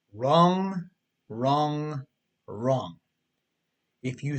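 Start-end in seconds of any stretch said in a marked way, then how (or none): 0.1-3.0 stamp each wrong down harder than the last; emphatic wrong. Acted. Narrator rejecting the reader's excuse, emphatic and rising in volume. Rejecting selfish money habits.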